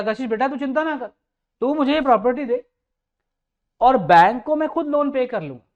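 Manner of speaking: loud, insistent reassurance; retold promise to a student, said loud and insistent; emphatic promise. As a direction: press the promise home, rising in force. Repeats his promise to student, louder.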